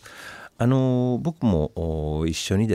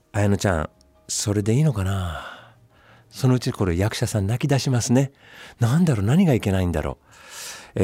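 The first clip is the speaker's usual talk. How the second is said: pressuring director. Retold or imitated. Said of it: "追い込み型".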